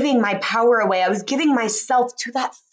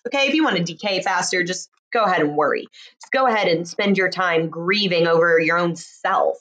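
sarcastic advice; 4 semitones lower than usual. Acted.

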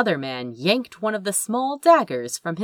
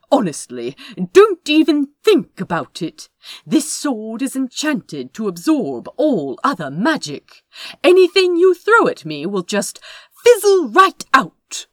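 calmer tone; 6 semitones higher, 7 dB louder than usual. Acted. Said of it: "In a calmer tone".

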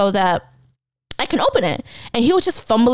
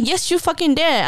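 higher-pitched, insistent comeback; mildly heated contradiction, pitched up; retold angry retort; 6 semitones higher than usual. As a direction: throw the accusation back at dad. Retold quarrel with dad.

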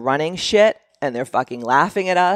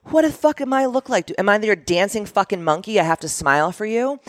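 higher, indignant rant; outraged; 6 semitones higher than usual. Real, not acted. Her reply to the man, higher indignant rant. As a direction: let the outrage climb in pitch.

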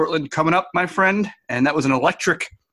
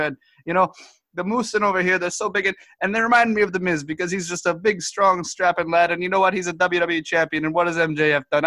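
a lightly raised, folksy Canadian guest voice, rambling; goofy Canadian correspondent; 2 semitones higher than usual. Acted. Correspondent Todd Hardo phones in to the news desk, folksy and rambling. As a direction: play a dim, friendly hoser reporter.

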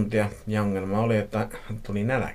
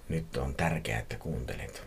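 low, hushed caller; quiet, deep phone threat; unknown man's voice; 7 semitones lower, 8 dB quieter than usual. A narrator's reading. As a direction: speak low and soft like a menacing stranger. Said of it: "joku tuntematon miehen ääni".

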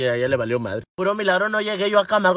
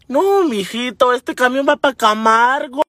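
slow, stretched-out correction; drawn-out correction; 4 semitones higher, 4 dB louder, slower than usual. Retold or imitated. Señora telling passenger the bus goes to Camargo, drawn-out. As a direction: spell out the bad news slowly.

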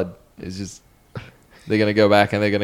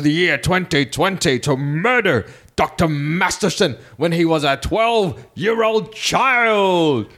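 higher, building trailer announcer voice; cinema pre-show announcer; 3 semitones higher than usual. Acted. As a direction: hype it up like a trailer. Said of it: "I'm gonna use my cinema announcer voice".

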